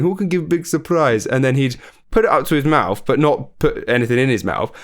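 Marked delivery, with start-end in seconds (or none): 0.0-1.2 mock Russian accent. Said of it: "He's like, keeps going".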